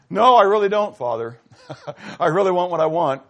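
loud, laughing stubborn admission; laughing confession. Retold or imitated. A believer honestly telling God, laughing stubbornly. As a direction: admit it with a grin and a laugh.

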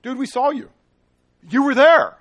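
high, loud insistence; accusing shout. Acted. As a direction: yell it like you caught him. Crowd accuses Peter, modern retelling.

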